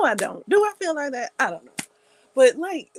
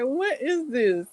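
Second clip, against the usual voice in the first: disgusted brother; 6 semitones higher, slower than usual. Retold or imitated. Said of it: "he was like".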